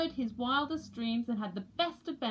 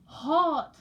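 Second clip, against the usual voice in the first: loud, higher exclamation; exclaiming chick; 5 semitones higher, 8 dB louder than usual. A narrator's reading. Chick Peaky exclaims at Indian heat, loud. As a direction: blurt it out. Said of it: "said Peaky".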